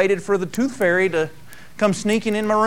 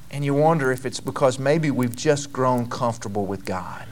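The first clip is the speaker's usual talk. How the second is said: soft whispered reflection; hushed preacher musing on lost respect; 6 semitones lower, 5 dB quieter than usual. Real, not acted. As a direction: lean in and whisper it. Sermon drops to hush.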